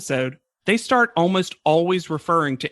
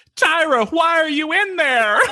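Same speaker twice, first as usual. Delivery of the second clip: imitated scream, higher pitch; 11 semitones higher, 4 dB louder than usual. Retelling a contestant's reaction when Tyra is revealed: imitating Stacey Ann screaming. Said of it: "Stacey Ann screams".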